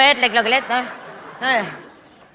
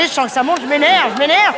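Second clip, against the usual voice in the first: getting worked up; 5 semitones higher than usual. Real, not acted. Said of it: "je suis énervé".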